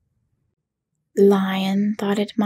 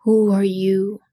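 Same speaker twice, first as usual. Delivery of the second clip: cried out; 4 dB louder than usual. A narrator's reading. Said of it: "cried out".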